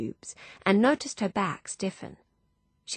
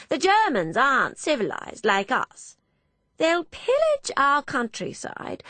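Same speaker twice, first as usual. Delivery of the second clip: shrill-pitched prophecy of doom, louder; rising pitch, alarmed; 8 semitones higher, 4 dB louder than usual. Acted. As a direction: work herself up, high and insistent. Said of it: "Her pitch rose".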